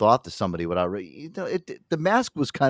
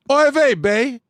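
silly put-on voice; 14 semitones higher, 5 dB louder, much slower than usual. Put-on joke voice.

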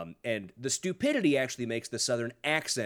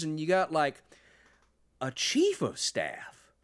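amazed Southern politician. Retold or imitated. Host imitates politician explaining staff, amazed, in a Southern accent. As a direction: marvel at basic things in a Southern accent. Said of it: "It reads like him being amazed".

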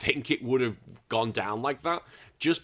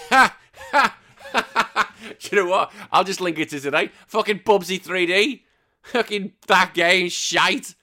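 ranting; 8 semitones higher, 7 dB louder than usual. Real, not acted. Ranting about Bubsy.

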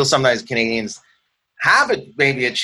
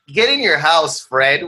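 lightly scolding neighbor, raised pitch; mock telling-off; 5 semitones higher, 4 dB louder, slower than usual. Comic plays neighbor sending Fred inside, mock scolding. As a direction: shoo him indoors in mock outrage.

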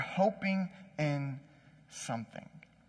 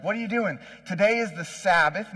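mock-indignant challenge, raised in pitch and volume; mildly indignant questioning; 3 semitones higher, 4 dB louder than usual. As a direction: act out a miffed official scolding. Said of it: "people get mad at him".

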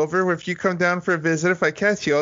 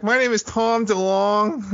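put-on California accent; 4 semitones higher, slower than usual. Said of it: "it's a California accent".

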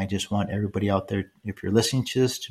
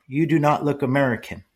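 higher, measured mock voice, "do" stressed; imitating her speech; 5 semitones higher than usual. Young woman telling him he looks foreign, higher mock imitation. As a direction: copy the young woman's careful phrasing. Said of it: "she was speaking just like that".

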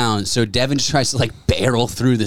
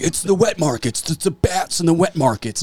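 mocking know-it-all; 6 semitones higher than usual. Mocking what everyone was saying.

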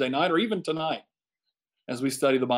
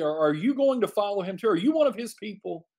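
sharp, higher suspicious challenge; accusing question; 5 semitones higher than usual. Retold or imitated. Comrades challenge Nicodemus, higher and accusing. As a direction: press him with a pointed accusation.

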